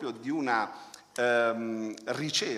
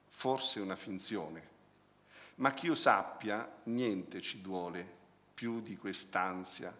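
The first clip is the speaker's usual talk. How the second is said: poem reading. Acted. Reads a favourite poem aloud.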